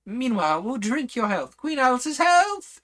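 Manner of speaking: very high, very loud, slow scream; screaming toast. Acted. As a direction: scream the toast to the whole hall. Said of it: "screamed at the top of her voice".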